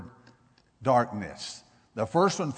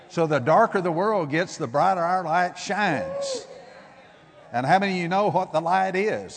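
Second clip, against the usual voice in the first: louder, higher preaching, slowing on the key line; preaching at full force; 3 semitones higher, 4 dB louder than usual. Real, not acted. Preacher rousing the congregation, loud and rising. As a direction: lift the voice and drive the point home.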